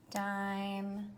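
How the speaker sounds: whispered echo of Dime. Shown as a demonstration. Echo after plain Dime.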